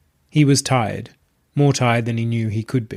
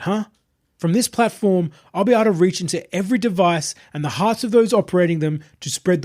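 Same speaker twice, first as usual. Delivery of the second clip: higher, calm, self-satisfied preacher voice; smug self-proclaimed messiah; 6 semitones higher than usual. Acted. Possessed streamer addressing his entourage, smug and serene. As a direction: announce your divinity like a smooth cult leader.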